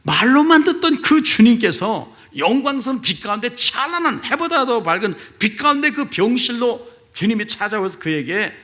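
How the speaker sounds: ordinary delivery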